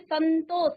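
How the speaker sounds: संतोष with a lingering n before तो; teacher sounding out संतोष; pronunciation demonstration. Shown as a demonstration. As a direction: hold the n in संतोष. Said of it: "अब इसका उच्चारण में देखिए".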